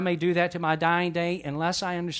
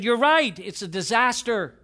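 lightly mimicked small child's exclamation, higher and emphatic; raised, mock-dramatic toddler announcement; three-year-old granddaughter; 5 semitones higher, 3 dB louder than usual. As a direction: imitate a little girl's big verdict. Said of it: "she said".

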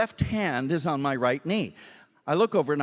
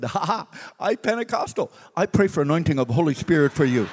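light chuckle then earnest; cheerful driver. Retold or imitated. Driver assuring the preacher he prays for him, cheerfully. David laughing, Pentecostal.

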